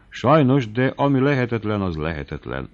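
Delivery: plain reading voice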